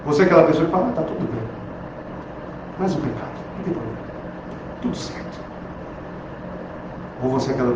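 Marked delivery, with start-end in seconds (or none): 0.9-5.4 soft, offhand mock nonchalance; careless shrug. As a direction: shrug off sin lightly. Careless believer voiced, dismissive.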